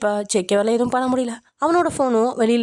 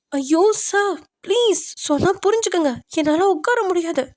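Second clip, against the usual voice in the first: high-pitched, urgent begging; desperate pleading; 8 semitones higher than usual. A narrator's reading. Woman in pain begs sir to understand, high and desperate. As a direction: implore him in a much raised voice.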